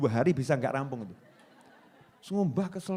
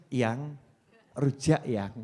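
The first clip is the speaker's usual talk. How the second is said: coaxing request; 5 semitones lower, much slower than usual. Retold or imitated.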